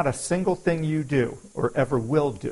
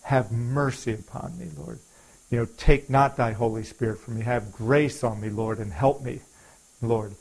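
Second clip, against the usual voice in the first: quiet prayer. Retold or imitated. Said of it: "I pray".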